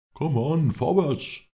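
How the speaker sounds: loud, high-pitched battle cry; shouting. A narrator's reading. Lindsay urges the men to charge, shouting. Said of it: "schrie Lindsay".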